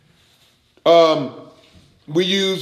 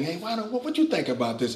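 softer, fast gentle suggesting; soft suggestion; 8 dB quieter, faster than usual. Retold or imitated. Preacher mimics flesh as a soft suggester. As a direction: murmur it like a polite offer. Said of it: "it's not suggesting".

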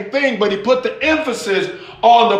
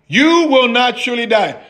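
smooth assuring lie; a hint of a slick tempter; mild serpent voice; 5 semitones higher than usual. Serpent lying to the woman, lightly smooth. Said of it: "the serpent said to the woman".

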